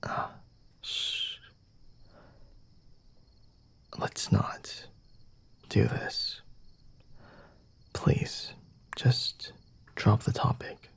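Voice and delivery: barely voiced, pleading hush; hushed shushing. Vampire hushing a nosy visitor, faint pleading whisper. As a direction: shush them and beg them to drop it.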